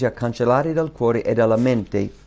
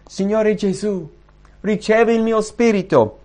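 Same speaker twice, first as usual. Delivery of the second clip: Stephen praying; 8 semitones higher than usual. A narrator's reading. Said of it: "che invocava Gesù e diceva".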